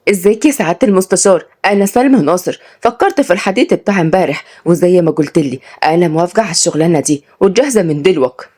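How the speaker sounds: lightly voiced Sa'idi young woman; eager village woman accepting a job, lightly acted; Upper Egyptian village woman. (صعيدية متحمسة بأداء خفيف)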